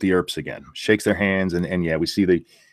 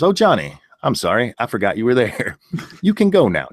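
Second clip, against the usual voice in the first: dismissive; 2 semitones higher than usual. Retold or imitated. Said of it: "dismissive of him".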